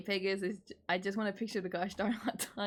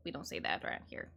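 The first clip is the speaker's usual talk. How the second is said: much lower, mock stern warning; deep scolding voice; 8 dB quieter than usual. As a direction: drop the voice low and scold. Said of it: "repeats scold, deep voice".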